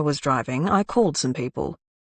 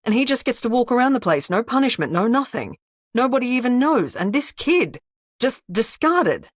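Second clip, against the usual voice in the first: rising anger; 6 semitones higher than usual. Acted. Darwin's outrage at injustice.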